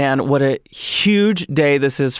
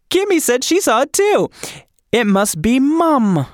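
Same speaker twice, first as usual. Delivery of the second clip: freaked-out grandma; 11 semitones higher than usual. Retold or imitated.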